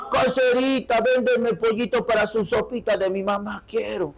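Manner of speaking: market customer in Andean Spanish. Acted. Customer asking the vendor for chicken, imitated Andean Spanish. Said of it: "El verbo al final".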